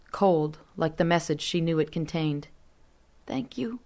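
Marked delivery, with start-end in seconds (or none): 3.2-3.8 soft, high, near-whispered thanks. A narrator's reading. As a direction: breathe it out barely aloud. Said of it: "she whispered".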